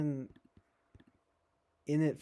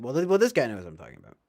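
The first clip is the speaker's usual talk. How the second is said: mock opener line; 6 dB louder, much faster than usual. Shown as a demonstration. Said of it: "And just be like".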